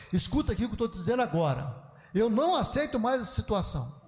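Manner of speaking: firm demonstration of a scolding; emphatic, insistent mock telling-off. Shown as a demonstration. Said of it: "se eu aumento o meu tom de voz".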